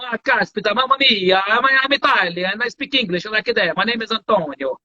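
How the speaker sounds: put-on English with a light Italian accent. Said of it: "E aí o italiano". (inglês com leve sotaque italiano)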